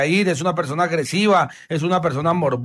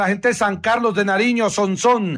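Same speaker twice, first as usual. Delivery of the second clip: higher, brisk on-air listing; radio host roll call; 3 semitones higher than usual. Acted. Host listing towns for his listeners, announcer style.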